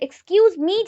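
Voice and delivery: ME lifting upward at the end; rising intonation on ME. Shown as a demonstration. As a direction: swing "me" up like a request. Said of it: "me में ज़्यादा हम लोग rise करते हैं".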